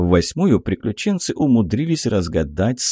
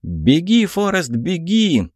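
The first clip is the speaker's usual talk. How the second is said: high, cheeky heckle from the crowd; playful shout; 9 semitones higher, slower than usual. A narrator's reading. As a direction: call it out high and teasing. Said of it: "крикнул кто-то задорно". (задорный высокий выкрик)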